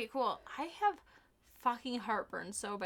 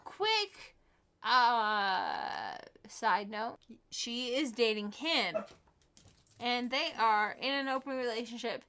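reading aloud; slower than usual. Acted. Reads listener question.

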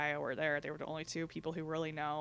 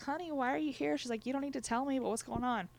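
high, tender auntie voice, much higher; gentle motherly nurse; 8 semitones higher than usual. Retold or imitated. Samoan nurse voiced in story.

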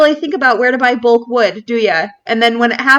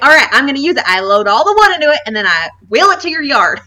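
lightly imitated Kansas City accent, a bit raised; thick Kansas City accent; 3 semitones higher, faster than usual. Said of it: "the thickest accent".

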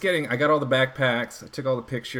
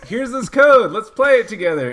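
mock friendly invite; 9 semitones higher, 9 dB louder than usual.

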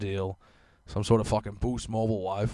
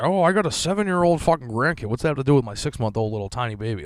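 imitating an old lady; 5 semitones higher, 7 dB louder than usual. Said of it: "Old fucks just like".

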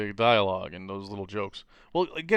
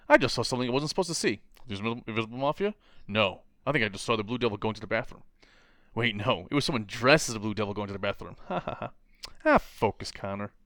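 mock quips. Acting out Superman's x-ray quips.

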